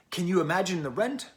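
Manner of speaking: lightly British, lifting at the end; attempted British accent. Quoting the British singer's repeated line, light British accent. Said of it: "Like she says, that she's British".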